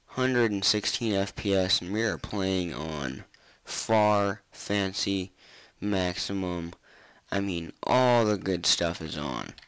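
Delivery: swollen mouth after wisdom teeth. Real, not acted. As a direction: speak through a swollen jaw after surgery. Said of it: "if I sound kinda goofy, it's because I got my wisdom teeth pulled out".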